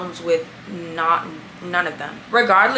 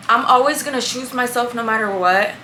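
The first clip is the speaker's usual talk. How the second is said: talking around retainers; words slurred by a retainer; wearing a retainer. Real, not acted. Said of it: "I can't talk with these retainers".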